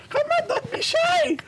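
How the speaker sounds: put-on a pushy Filipino nurse nagging in her accent. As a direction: Filipino accent, nurse scolding him to shower. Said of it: "there was a Filipino nurse".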